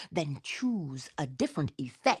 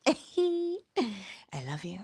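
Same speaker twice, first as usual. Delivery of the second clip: teary farewell; 4 semitones higher, 5 dB quieter, much slower than usual. Real, not acted. Teary goodbye.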